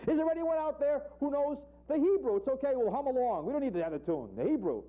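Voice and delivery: high cantorial wail to the crowd; pleading rabbi. Acted. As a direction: chant the question like a desperate cantor. President pleads again.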